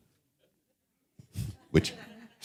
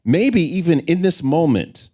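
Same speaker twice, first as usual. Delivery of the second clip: higher, earnest and resolved; the force; 6 semitones higher than usual. Acted. Speaker voicing a determined passenger, raised and earnest. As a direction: vow to learn to swim, firm and raised. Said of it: "The force says".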